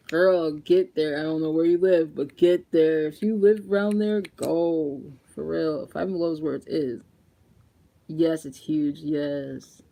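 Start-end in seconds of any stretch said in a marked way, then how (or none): 0.1-5.0 emphatic urging. Real, not acted. Urging viewers to go.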